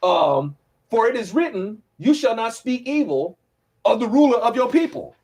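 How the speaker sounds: sarcastic. Retold or imitated. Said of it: "So Paul is being kinda sarcastic here".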